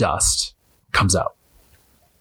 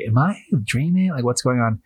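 bewildered; 4 semitones higher than usual. Retold or imitated. Truly out of it.

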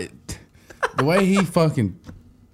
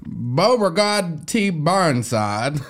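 slow Southern name; much slower than usual. Shown as a demonstration. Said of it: "we're just gonna do accents".

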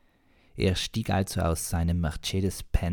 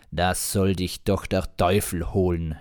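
mild mock rage; 4 dB louder than usual. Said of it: "schrie er wutentbrannt".

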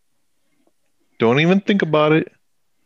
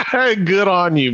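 laughing; 3 semitones higher than usual. Real, not acted.

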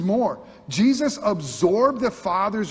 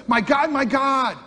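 higher and louder, pressing "My God"; urgent cry; 6 semitones higher, 4 dB louder than usual. Retold or imitated. Preacher voices Jesus' cry from the cross, loud and urgent. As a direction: ring out the cry with rising urgency. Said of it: "All of a sudden it says".

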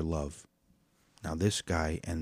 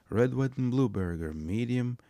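eager order; 6 semitones higher than usual. Retold or imitated. Ordering his usual.

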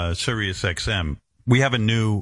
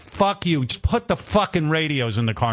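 higher, curt mock brush-off; 6 semitones higher than usual. Telling off the car executives in a mock rude retort. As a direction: snap at them to get on with it. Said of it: "And I'd be like".

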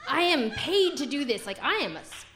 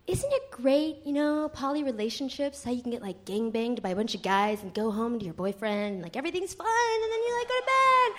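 mock gushing friend. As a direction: play the poly friend gushing about her life. Mocking poly friend's gushing talk.

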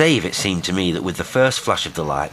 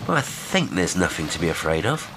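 "afraid of" left tentative, half asking; questioning tone. A narrator's reading. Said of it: "There was a question in his tone".

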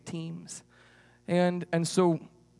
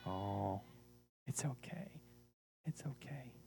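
soft whispered reassurance; gentle whispered comfort; 7 semitones lower, 17 dB quieter than usual. Acted. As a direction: whisper it to calm him down. Comforting shy puppet.

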